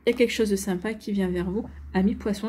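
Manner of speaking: talking through hiccups. Real, not acted. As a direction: hiccups breaking the words. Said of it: "j'ai le hoquet comme d'hab".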